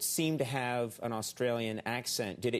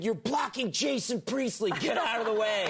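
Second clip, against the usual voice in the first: raised, brushing him aside; a hint of an annoyed photographer; curt photographer; 7 semitones higher than usual. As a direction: shoo him out of the way. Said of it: "And he said".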